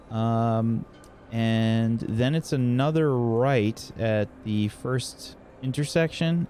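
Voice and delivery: lightly voiced receptionist, thinking through the route; helpful desk character. Character directing a visitor to an upstairs office, helpful.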